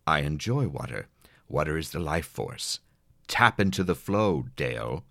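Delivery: a hint of sweet malice; low, syrupy and faintly threatening; sweetly menacing. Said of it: "she said sweetly, but also with a hint of malice".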